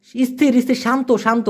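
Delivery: slow, soothing mock calming of an agitated person; calming someone. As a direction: settle them down gently, drawing out তেনাং. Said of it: "আপনি যে বলতে পারেন".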